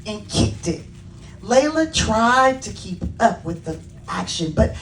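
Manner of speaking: animated storybook reading with lifted key words; children's story narration. A narrator's reading. Author reading Layla's story to children, animated narration. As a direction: read it to children, expressively. Reads own book to children.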